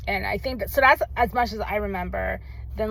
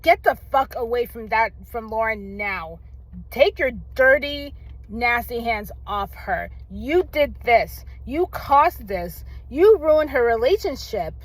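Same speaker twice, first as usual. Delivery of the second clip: raised, heated scolding of the mother; retold furious telling-off. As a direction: tell her off as if she's right there, full of rage. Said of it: "I was so angry".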